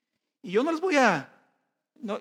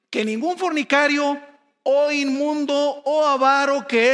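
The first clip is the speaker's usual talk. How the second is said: louder solemn preaching of the verse; scripture reading; 3 dB louder than usual. Acted. Preacher reading Ephesians to the congregation, louder solemn proclamation.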